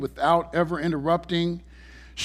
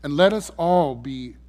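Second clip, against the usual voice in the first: prayer. Acted. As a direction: pray it humbly and earnestly. Leads a prayer.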